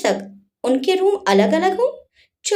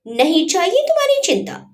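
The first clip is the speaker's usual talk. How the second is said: angry cry; 4 semitones higher than usual. Acted. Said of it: "गुस्से में चिल्लाते हुए बोली".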